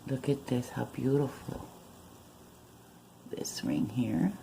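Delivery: hushed whisper so nobody wakes. Real, not acted. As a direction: keep it down, barely voiced. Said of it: "I'm whispering".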